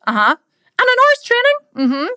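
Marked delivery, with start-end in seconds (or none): 0.8-1.6 higher, fast, whiny alarm; hammed-up dismay at the workload; mock panicked client. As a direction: squeak it out like a horrified client. Client panics about training.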